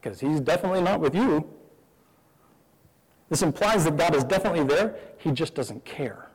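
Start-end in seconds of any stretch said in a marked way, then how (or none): 0.0-1.5 mocking taunt. 5.2-6.3 hushed taunt. Retold or imitated. Voicing the taunt.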